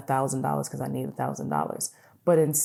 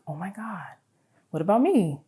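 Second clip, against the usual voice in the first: excited reply; 5 semitones higher than usual. Retold or imitated. Acted excited reply to a partner.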